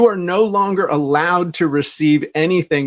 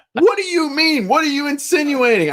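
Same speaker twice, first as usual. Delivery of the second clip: much higher, indignant squeal; outraged customer; 10 semitones higher than usual. Retold or imitated. The psycho customer going ballistic, a much higher indignant outburst. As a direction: play the offended customer, shrill with outrage.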